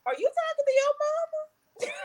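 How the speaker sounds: put-on high squeaky incredulous kid; shocked kid voice. Kids mocking a mouthy friend, high shocked squeal. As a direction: squeal it like a scandalized child. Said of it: "I've heard my kids say".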